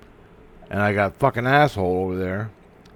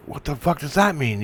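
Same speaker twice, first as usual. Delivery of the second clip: higher-pitched exasperated question; baffled demand; 6 semitones higher than usual. Retold or imitated. Asking the singer what his song means, baffled.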